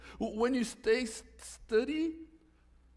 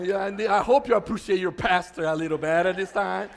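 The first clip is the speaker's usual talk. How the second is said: loud playful boast; mock demanding shout; 3 semitones lower, 8 dB louder than usual. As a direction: shout it in jest. Joking demand for appreciation.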